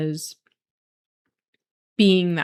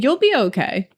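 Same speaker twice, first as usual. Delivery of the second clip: reassuring Doctor Joe; 6 semitones higher, 4 dB louder than usual. Retold or imitated. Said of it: "he said".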